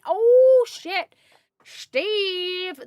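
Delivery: sudden high startled cry; surprised. Real, not acted. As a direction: yelp it in shock. Reacting to working in heat.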